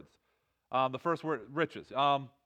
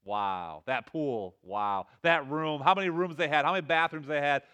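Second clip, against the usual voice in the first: imitating TV host; 2 semitones lower than usual. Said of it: "this guy in this accent".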